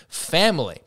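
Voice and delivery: mock-quoting the word family; air-quoted family. Shown as a demonstration. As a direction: lift family like a sarcastic quote. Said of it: "in inverted commas".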